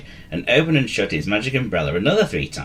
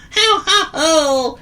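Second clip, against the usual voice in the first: high, louder ho ho; wishful chortle; 7 dB louder, much slower than usual. A narrator's reading. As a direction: chortle up high, hoping it catches on. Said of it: "chortled Sam Squeak wishfully".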